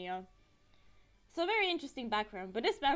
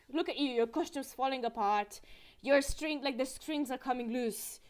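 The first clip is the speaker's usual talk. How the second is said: unironic exclamation; 2 semitones higher, 6 dB louder than usual. Retold or imitated. Guy telling a girl her costume's falling apart, unironic exclamation. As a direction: point it out in all seriousness, louder at the end. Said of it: "he said it so unironically".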